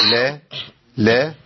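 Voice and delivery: لا said clearly with an open a; lam with fatha demo. Shown as a demonstration. Sheikh modelling لا for students. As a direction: pronounce لا crisply. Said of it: "اللام المحركة بفتح تبقى ايه".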